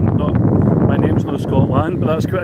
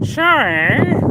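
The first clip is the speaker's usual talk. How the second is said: long, very high, rising mock "sorry?"; uncomprehending "sorry?"; 12 semitones higher, 4 dB louder than usual. Imitating someone who really didn't understand, drawn-out high "sorry?". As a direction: exaggerate total incomprehension, stretched and swooping up high. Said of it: "You really didn't understand".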